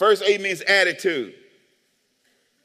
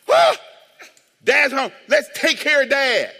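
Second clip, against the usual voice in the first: mock doting family; 6 semitones higher, 5 dB louder than usual. Voicing family fussing over dad.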